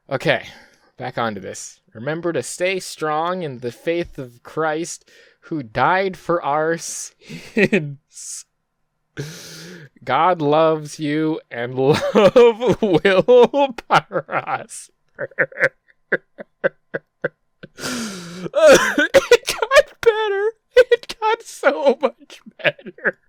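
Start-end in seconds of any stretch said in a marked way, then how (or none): 1.9-15.3 laughing read. Real, not acted. Reading comment, laughter breaking through. 17.8-23.2 high, slow, wheezing laughter; laughing till breathless; dying of laughter. Real, not acted. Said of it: "I think I'm dying".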